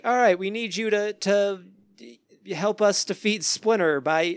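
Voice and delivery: mock children's-show host plea; imitated stage appeal. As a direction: play at rallying an audience of kids. Imitates stage appeal to young audience.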